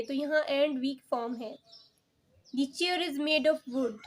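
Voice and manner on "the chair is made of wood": "of" said light and unstressed, like "uv"; weak form of. Shown as a demonstration. Teacher showing pupils the weak "of", unstressed. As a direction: let "of" slip by quickly between "made" and "wood". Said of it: "Of को देखिए, हम इतना stress नहीं कर रहे".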